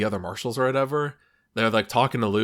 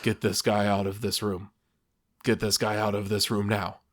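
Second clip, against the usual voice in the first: more bored with every repeat; growing boredom; 2 semitones lower than usual. Retold or imitated. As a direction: let the energy drain out each time. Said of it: "sounds more bored every single time".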